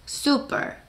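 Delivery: super whispered softly, English vowels. Shown as a demonstration. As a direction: breathe out super gently. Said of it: "시작".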